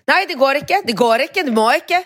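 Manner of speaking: fussy clerk. Retold or imitated. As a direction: whine the icke up each time. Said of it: "ett småhysteriskt".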